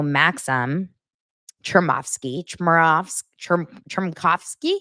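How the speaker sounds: Chermovsky, Chmerkovs-, Cherm-, Chermkovsky tried slowly, syllable by syllable; fumbling a name. Real, not acted. Vlogger struggles to say Maxim's surname, halting retries. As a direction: keep restarting the surname Chermkovsky, unsure of its sounds. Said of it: "I'm saying it wrong".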